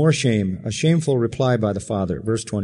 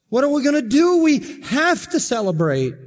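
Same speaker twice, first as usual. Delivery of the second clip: much higher, bright call to celebrate; eager father, pitched high and excited; joyful urging; 11 semitones higher than usual. Acted. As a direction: lift it up like a father who can't contain his joy.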